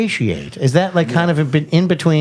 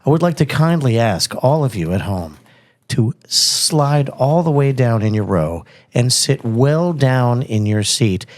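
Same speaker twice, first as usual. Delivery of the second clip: slow theme park ride announcer; 3 semitones lower than usual. Acted. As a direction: welcome them like a ride operator. Podcast host opening announcement.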